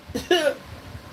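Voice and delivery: breathy soft chuckle at dark news; a small unvoiced laugh slips out; quiet laugh. Real, not acted. Laughing softly at the grim card she just read. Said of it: "I don't mean to laugh".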